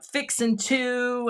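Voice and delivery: put-on slow, drawn-out Texas accent. Recalling things said in Texas, in a light Texas accent. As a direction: draw it out like a Texan. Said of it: "when I lived in Texas".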